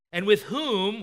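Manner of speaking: mock sarcastic question; pointed, mildly scornful; biting sarcasm. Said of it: "You see this biting sarcasm there?".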